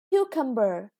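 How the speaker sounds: cucumber with the first CU stressed; teacher modelling the word cucumber. Shown as a demonstration. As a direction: hit the CU of cucumber. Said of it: "the first syllable is stressed".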